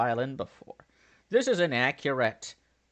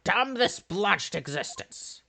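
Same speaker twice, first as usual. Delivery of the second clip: higher, slow theatrical cry; anguished outburst; 7 semitones higher, slower than usual. Acted. Burnt-out detective cursing existence, melodramatic anguish. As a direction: curse life with hammy despair.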